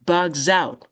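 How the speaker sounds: "Bugs out" joined as bug-zout; z liaison. Shown as a demonstration. Teacher showing the liaison, z linking. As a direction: link "Bugs out" with a voiced z. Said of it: "Ou fait liaison avec ça".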